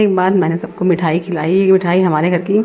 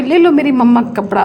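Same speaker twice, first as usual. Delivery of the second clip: imitating the little girl's angry talk-back, pitched up; imitating angry child; 5 semitones higher than usual. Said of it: "और इतना लड़ रही थी". (गुस्से में बच्ची की नकल)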